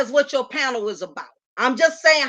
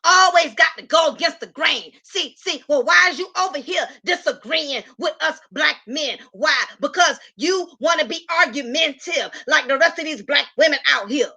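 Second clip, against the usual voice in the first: mocking panel dudes. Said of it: "all five dudes are gonna come in and say".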